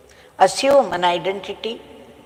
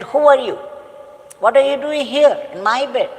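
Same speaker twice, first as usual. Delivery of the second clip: angry king; 5 semitones higher than usual. Retold or imitated. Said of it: "he woke him up violently".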